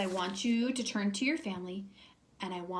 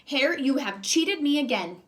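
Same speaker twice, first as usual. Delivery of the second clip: scowling Bear; 3 semitones higher, 5 dB louder than usual. Acted. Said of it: "looked at his pile and scowled".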